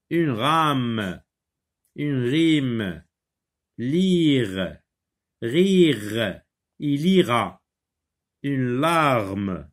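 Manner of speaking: each word separate, falling at the end; reading a word list. Shown as a demonstration. Teacher reads exercise words to pupils, separately and clearly. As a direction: model each word clearly, pausing between. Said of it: "Je lis des mots".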